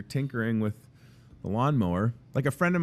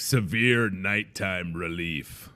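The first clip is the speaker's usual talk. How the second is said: slow dramatic label reading; product voice; much slower than usual. Retold or imitated. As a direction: read it like a label ad. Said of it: "the off-brand stuff's like".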